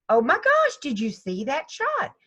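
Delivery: high, loud burst of joy; excited golfer voice; thrilled. Retold or imitated. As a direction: shout about the great shot. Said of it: "It's like".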